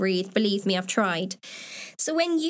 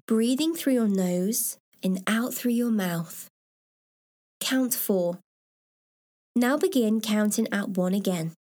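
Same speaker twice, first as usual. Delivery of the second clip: guided meditation. Shown as a demonstration. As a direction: calmly lead them into relaxation. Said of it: "This is what it's going to sound like".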